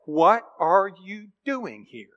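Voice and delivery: slow, soft, solemn voice of God asking; measured divine question. Acted. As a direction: let each word fall slowly, gravely. God questions Elijah in cave.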